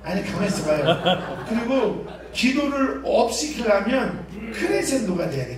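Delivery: usual speaking voice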